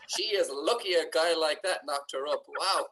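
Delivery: sarcastic to his girlfriend, dripping with mock admiration. Heavy sarcasm. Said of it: "And I was like".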